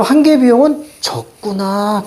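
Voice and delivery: 적구나 drawn out as a realization; demonstrated reading takeaway. Shown as a demonstration. Teacher modelling the takeaway for students, dawning realization. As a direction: stretch 적구나 as the point grasped. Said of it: "이렇게만 잡아내시면 되죠".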